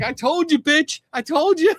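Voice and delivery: very high, cackling told-you-so; hammed-up gloating old lady, laughing; shrieking mock triumph; imitating the cackling friend. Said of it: "this lady's like".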